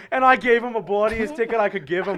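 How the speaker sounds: hammed-up Australian that could pass for Irish; attempted Australian accent. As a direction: brag in a wobbly Australian accent. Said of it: "They're live at five A M Australian time".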